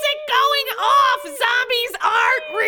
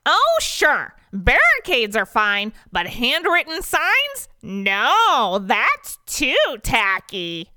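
high, slow, drawn-out griping; squeaky mock agreement, each phrase stretched out; sarcastic complaining; 12 semitones higher, much slower than usual. Dennis complains about corporate's sign rule, high sarcastic whine. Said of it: "complains Dennis".

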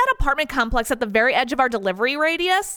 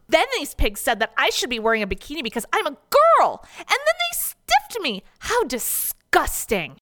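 complaining. Acted. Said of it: "she complains".

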